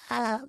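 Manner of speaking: soft high little "Ah"; faint weak laugh. Shown as a demonstration. Showing his first shy, faint attempt, soft and high. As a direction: let it come out small and faint. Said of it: "It was like a".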